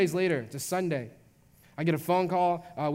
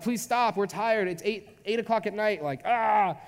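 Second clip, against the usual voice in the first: higher-pitched mock plea from tired parents; exasperated pleading; 5 semitones higher, slower than usual. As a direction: beg the baby to stop, playing up the desperation. Worn-out parents beg baby to stop.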